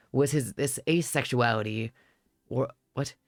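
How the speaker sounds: low steady reminiscing voice; tall man narrating. Acted. Tall man tells memories.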